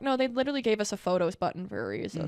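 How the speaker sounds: usual speaking voice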